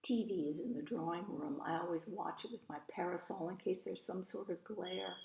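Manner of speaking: lively, expressive storybook reading; story narration. A narrator's reading. Eloise telling about her mother and the lawyer, storybook narration. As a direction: read it as a chatty child narrator's tale.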